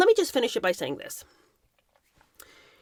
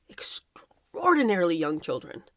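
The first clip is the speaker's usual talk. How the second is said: slow, low, partly whispered; grave hush; 4 semitones lower, slower than usual. Real, not acted. Commentator telling of predators' victims, grave slow hush. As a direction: let the voice sink into a hush. Grave disclosure about children.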